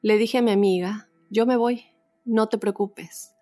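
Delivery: measured read-aloud testimony, pauses between phrases; story narration. A narrator's reading. Host reads a listener's ghost story to the audience, story narration. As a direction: read it out as a first-person true tale.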